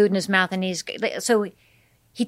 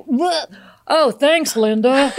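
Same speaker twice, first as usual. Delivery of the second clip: higher, casual thanks; casual uncle voice; 5 semitones higher, 3 dB louder, slower than usual. Retold or imitated. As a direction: toss off the thanks lightly.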